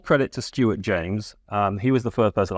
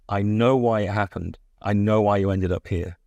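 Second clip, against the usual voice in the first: hanging suspense. Shown as a demonstration. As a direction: take your time over the reveal. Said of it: "let that hang in the air".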